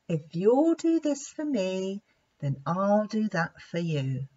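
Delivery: lightly acted bargaining offer; bargaining example. Wise lion demonstrates a fair bargain, lightly voiced. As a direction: offer the deal reasonably. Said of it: "It goes like this".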